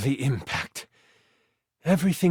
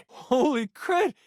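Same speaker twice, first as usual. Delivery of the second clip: surprised; 8 semitones higher, slower than usual. Real, not acted. GM reacts to a critical hit.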